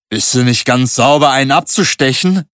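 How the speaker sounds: can't believe what he just did; 1 shocked rebuke. A narrator's reading. Barkeeper rebukes the narrator, appalled.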